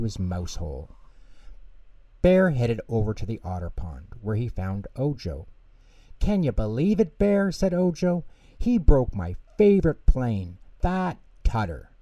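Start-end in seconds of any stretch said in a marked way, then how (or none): 6.2-11.9 upset Ojo. Acted. Ojo upset about broken plane.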